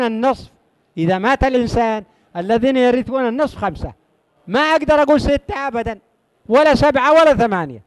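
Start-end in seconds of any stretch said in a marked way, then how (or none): 4.5-7.8 quick, higher, insisting it can't be more; a teacher firmly ruling out six or seven; insistent teacher. Shown as a demonstration. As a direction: rush the refusal up high. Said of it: "teacher insisting on fixed numbers".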